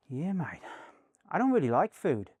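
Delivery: imitated Australian actor; bad Australian accent. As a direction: put on a rough Australian accent. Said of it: "sorry for my really bad accent".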